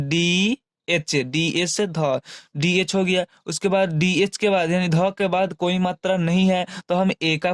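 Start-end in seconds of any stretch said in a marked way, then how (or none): 0.1-2.2 slow spelling out. Shown as a demonstration. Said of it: "ध का क्या होता है दोस्तों".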